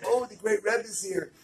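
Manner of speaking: mocking. Mocking onlookers voiced.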